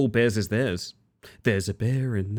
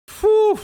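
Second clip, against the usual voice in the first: high, loud whistle of relief; loud relieved phew; 7 dB louder than usual. Real, not acted. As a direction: blow out the tension with a sharp phew. Scary moment in the race.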